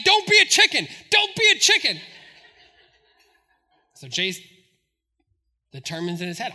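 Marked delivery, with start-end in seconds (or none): 0.0-2.0 high, loud goading; Isaiah. Retold or imitated. Boy goads Jace at the creek, loud taunting. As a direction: imitate a kid taunting with a shout. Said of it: "Isaiah's like".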